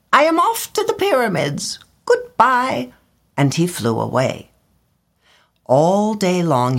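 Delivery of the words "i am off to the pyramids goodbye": very high huffy bird voice; indignant swallow cry. A narrator's reading. Swallow storming off to the pyramids, very high and huffy. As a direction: fling it as you leave. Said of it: "he cried".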